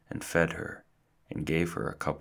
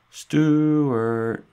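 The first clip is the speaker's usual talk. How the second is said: a much higher, louder full shout; louder calling out; 11 semitones higher, 11 dB louder than usual. A narrator's reading. Family calling again for the hidden Stuart, even louder shout. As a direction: yell the name once more, stronger. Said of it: "the house often echoed with cries of".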